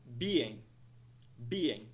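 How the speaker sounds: "Being" in two parts, BEE-ing, falling at the end; low falling model of "Being"; two syllables. Shown as a demonstration. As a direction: say "Being" with stress on BEE, dropping away. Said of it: "duas partes".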